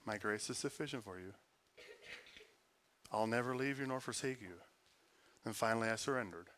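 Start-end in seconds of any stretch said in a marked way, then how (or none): 0.0-4.6 soft divine voice. Acted. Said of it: "a rhema would come".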